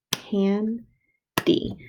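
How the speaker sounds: teacher clapping syllables; clapped syllables. Shown as a demonstration. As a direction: split into two beats, Can and D. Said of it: "I counted two syllables".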